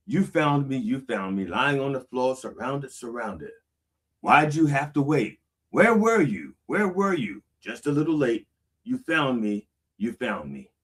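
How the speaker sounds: rising, anguished cry of where were you; aching plea to an absent God; pleading lament. Acted. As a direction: plead with someone who came too late. Voices the anguished song lyric.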